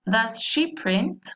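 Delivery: "Does she print?" said slowly, pitch going up on print; rising question tune. Shown as a demonstration. Teacher modelling a slow rising question for the class. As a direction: let "Does she print?" rise at the end, taking it slow. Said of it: "la entonación va hacia arriba".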